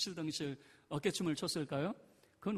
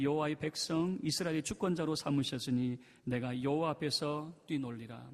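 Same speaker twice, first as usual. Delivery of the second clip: steady, somewhat louder reading of the verse; scripture reading; 4 dB louder than usual. Acted. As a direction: read the verse out with the congregation. Congregation reads scripture aloud. (성경 봉독하듯 또박또박)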